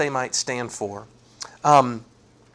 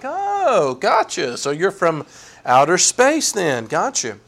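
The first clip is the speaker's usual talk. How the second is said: sarcastic humoring; slower than usual. Retold or imitated. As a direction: humor someone you think is crazy. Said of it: "the kind of way that you talk to someone".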